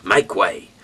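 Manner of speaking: loud herald calling out; guard shouting ahead of the chariot; crying out. Acted. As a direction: clear the road for the chariot, loud. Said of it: "cried out".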